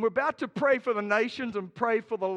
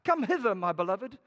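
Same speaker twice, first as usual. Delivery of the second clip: mock romantic husband. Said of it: "Say that to your wife".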